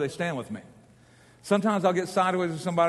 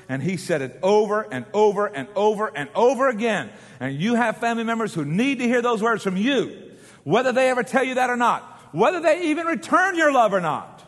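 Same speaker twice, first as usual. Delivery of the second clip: impassioned preaching; 4 semitones higher, 4 dB louder than usual. Real, not acted. Preaches at full force.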